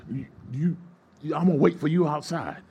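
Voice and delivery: lightly acted angry threat. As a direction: imitate an angry man making threats. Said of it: "got angry, started cussing him out".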